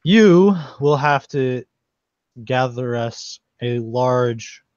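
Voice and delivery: slow, measured statue pronouncement; humble statue. Acted. Humble male statue giving adventurers their first task, slow and solemn. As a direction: set out the task slowly and deliberately. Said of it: "more humble male statue".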